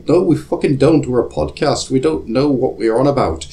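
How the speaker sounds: hammed-up exasperation; comic indignant retort. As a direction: fire back in mock outrage. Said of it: "We say".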